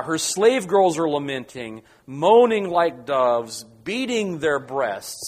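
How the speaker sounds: slow, deliberate weight on "moaning" and "beating"; emphatic listing. Shown as a demonstration. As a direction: drive home "lamenting", "moaning", "beating" one by one. Stressing the repeated mourning phrases.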